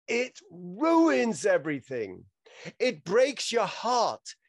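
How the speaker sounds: passionate speech. Acted. Reciting Ronny's film speech.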